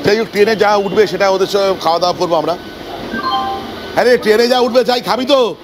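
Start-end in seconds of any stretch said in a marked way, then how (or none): none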